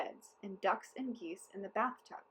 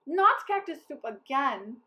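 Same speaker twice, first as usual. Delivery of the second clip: slow, louder whine; slow, dragging lament; whining soldiers; 5 semitones higher, 10 dB louder than usual. A narrator's reading. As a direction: complain like weary troops. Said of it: "the soldiers cried".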